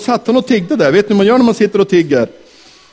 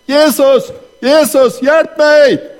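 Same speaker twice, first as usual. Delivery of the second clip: crying out for help; 7 semitones higher, much slower than usual. Retold or imitated. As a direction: call out to Jesus for help. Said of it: "Då började han".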